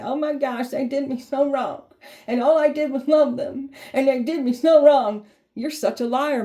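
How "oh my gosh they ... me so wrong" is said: high, whiny fake-victim wail, rising to loud; mock someone crying crocodile tears; mock crybaby whining. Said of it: "put on crocodile tears and cry them tears like".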